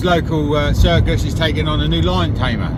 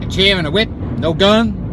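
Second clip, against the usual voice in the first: put-on higher, questioning American accent; 4 semitones higher than usual. Applicant doubts the chair and whip, American accent. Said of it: "that's the part of the American accent".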